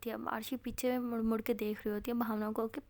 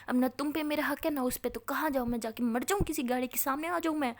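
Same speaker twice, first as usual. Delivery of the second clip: rising, louder furious complaint; angry rant; 5 dB louder than usual. Acted. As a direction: vent the hurt at them. Angry outburst at friends.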